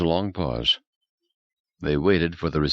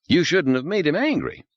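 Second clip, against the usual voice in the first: almost pleading; 11 semitones higher than usual. A narrator's reading. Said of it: "He was almost pleading".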